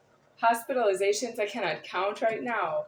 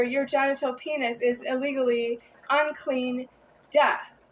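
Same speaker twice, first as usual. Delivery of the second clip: real anger; 4 semitones higher, 3 dB louder than usual. Real, not acted. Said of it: "Do I don't have a right to be angry".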